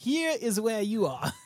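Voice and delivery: put-on terrible, very high-pitched New Zealand accent. Quoting a scene from Flight of the Conchords, does a Murray impression. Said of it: "Terrible accent".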